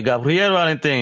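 Gabriel Valentin with trilled Spanish R's, Latino pronunciation; rolled r. Shown as a demonstration. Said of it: "I'm gonna do it all the Latino way".

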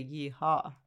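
quoting a cowboy yeehaw; lightly voiced cowboy holler. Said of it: "why did he say".

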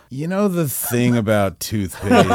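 slow, grumbling low voice, laughing through it; deep grumbly voice. Retold or imitated. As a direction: play a gruff narrator doing a monologue. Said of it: "someone with a deep, grumbly voice goes".

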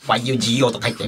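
quick mock robot voice. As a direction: imitate a robot, laughing. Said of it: "ロボットっぽい喋り方".

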